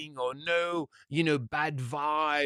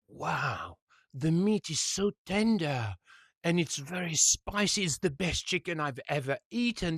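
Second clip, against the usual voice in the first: retold amazement; 4 semitones higher than usual. Dutch customer tasting cheap chicken, mildly acted amazement. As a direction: marvel lightly, rising into disbelief at the end. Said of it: "the guy is totally amazed".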